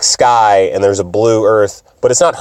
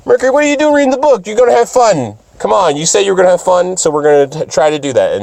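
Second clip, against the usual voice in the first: put-on much higher, fast cheerful girl voice; joyful Sailor Moon; 6 semitones higher, faster than usual. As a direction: bounce in like a naive happy girl. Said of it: "is joyful and is like".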